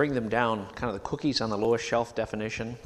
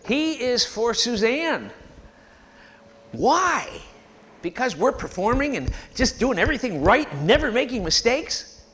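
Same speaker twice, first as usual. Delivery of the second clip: higher and louder, building up; impassioned preaching; 9 semitones higher, 5 dB louder than usual. Real, not acted. Preacher rousing the congregation, loud and high. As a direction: call it out with fire.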